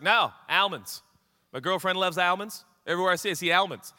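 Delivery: put-on insistent accented almonds, flat first A; commercial character's accent. Man insisting to his friend, in the ad's accent. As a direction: mimic the ad man's accent, pressing the point. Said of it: "I hope that this accent".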